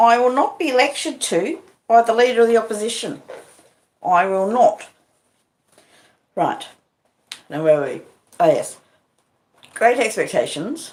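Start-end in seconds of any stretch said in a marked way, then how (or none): 0.0-4.9 put-on pitched-up Australian accent, prime minister style. Mocking a Prime Minister's irritating accent: Julia Gillard impression. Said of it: "Julia Gillard when she was our Prime Minister".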